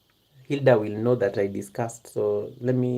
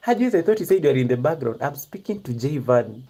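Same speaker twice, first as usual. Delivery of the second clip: mock scolding; 2 semitones higher, 4 dB louder than usual. Real, not acted. Streamer catching a supposedly background viewer butting in, loud mock scolding. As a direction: call out the eavesdropper in amused indignation.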